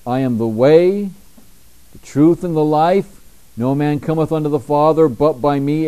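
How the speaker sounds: quoting Jesus. Retold or imitated. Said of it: "Jesus said unto him".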